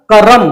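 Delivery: करम with the vowel after र sounded; करम, every vowel sounded; full ra sound. Shown as a demonstration. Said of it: "इसमें र के बाद आ की आवाज है".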